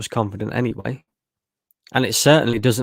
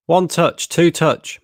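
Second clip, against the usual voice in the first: frustrated shout; 6 semitones higher, 4 dB louder, slower than usual. Real, not acted. Frustrated fan barking instructions.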